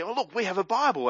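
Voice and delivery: light imitation of a pleased exclamation; excited. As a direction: quote it with a touch of eager excitement. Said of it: "they said rather excitedly".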